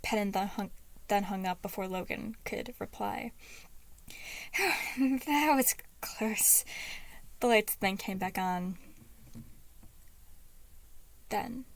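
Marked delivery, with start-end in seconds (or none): 4.6-6.6 relieved whisper. A narrator's reading. Relief after hanging up.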